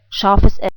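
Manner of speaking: "scharfes S" said in German, "SHAR-fes ess"; German pronunciation. Shown as a demonstration. German speaker naming the letter for learners, "scharfes S" in German pronunciation. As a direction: say "scharfes S" as a native German would. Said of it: "I'm a German native speaker".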